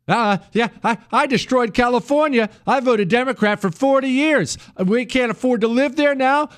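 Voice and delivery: hammed-up ex-Californian voter; mock clueless Californian. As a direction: play the oblivious transplant to Montana. Voicing a migrating Californian.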